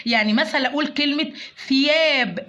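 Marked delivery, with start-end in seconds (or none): 1.7-2.4 "ثياب" with th as in think; tongue between the teeth on the ث of "ثياب"; tongue-out tha. Shown as a demonstration. Teacher shows tha against seen, lisped th in "ثياب". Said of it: "أخرج لساني في حرف الثاء".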